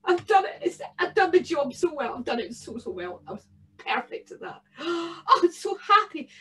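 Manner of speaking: a bogle savouring his win; gleeful bogle, lightly voiced. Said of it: "rubbing his gnarly, knotted hands".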